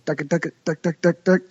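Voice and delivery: quick duck-duck chuckle call; beating chuckle call. Shown as a demonstration. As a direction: rattle it off like a chuckle. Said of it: "a little beating chuckle".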